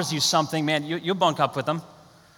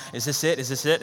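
jittering; 4 semitones lower, 3 dB quieter than usual. Retold or imitated. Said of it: "like, jittering".

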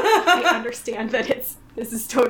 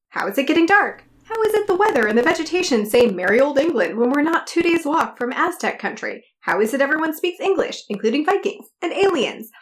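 escalating comedy rant. Retold or imitated. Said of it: "Jaleel goes on a rant".

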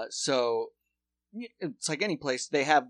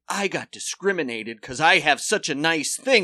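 whiny higher mock voice; mocking rich whites; 6 semitones higher, 9 dB louder than usual. Mocking rich white guys who got pulled over, whiny and higher. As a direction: lampoon the entitled complainer. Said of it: "Fat whites are like".

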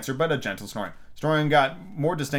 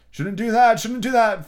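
frog grumbling; 9 semitones higher, 6 dB louder, slower than usual. A narrator's reading. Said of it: "Frog muttered".

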